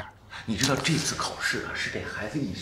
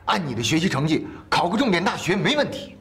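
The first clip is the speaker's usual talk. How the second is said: encouraging; 9 semitones higher, 7 dB louder than usual. Acted. Encouraging the student.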